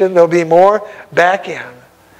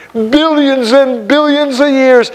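awed emphasis; 6 semitones higher than usual. Real, not acted. Emphatic wonder at eternity.

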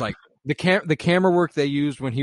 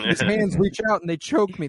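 high, loud student poet, acted out; impassioned recital; 8 semitones higher, 5 dB louder than usual. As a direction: cry the verse out as it comes. Reenacting Todd's improvised poem scene.

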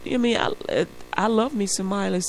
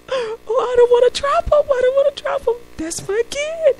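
mock nervous dad; 8 dB louder than usual. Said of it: "He's like".

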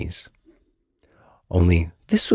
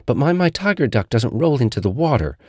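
bossy, careful Little Tiger; 7 semitones higher than usual. Acted.

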